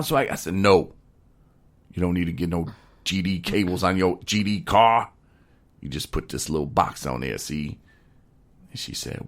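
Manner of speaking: lightly put-on country storytelling accent; hillbilly storyteller. Telling his wing-night story to the listener, mild hillbilly accent. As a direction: spin the yarn with a hint of hillbilly drama. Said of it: "angry hillbilly".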